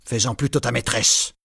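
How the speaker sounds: lightly voiced old man, mocking and cold; scornful grandfather. A narrator's reading. Grandfather mocks Marius's wish to marry, lightly scornful. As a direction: sneer at the young man's plans.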